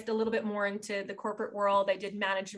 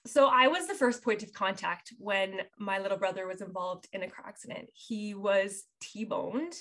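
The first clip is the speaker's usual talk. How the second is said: fighting tears on the last words; holding back sobs. Real, not acted. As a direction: voice breaking, fading to a whisper. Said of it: "I get emotional because it brings up so much in me".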